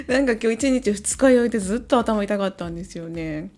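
tired hungover voice; speaking while hungover. Real, not acted.

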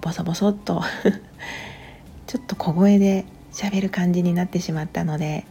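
quiet at night. Real, not acted.

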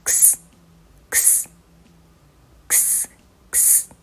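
"クス" as voiceless ks, no vowels. Shown as a demonstration. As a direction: hiss out "クス" with no voice at all. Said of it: "Xは無声音です".

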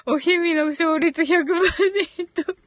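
holding back laughter; trying not to laugh; stifled giggles. Real, not acted. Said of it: "笑いをこらえてるから".

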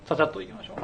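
quick, hurried wrap-up; rushing before cutoff. Real, not acted. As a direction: hurry it along, short on time. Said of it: "もう時間なさそうなんで".

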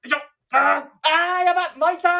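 dismayed golfer. Pretend. Acted hooked shot reaction.

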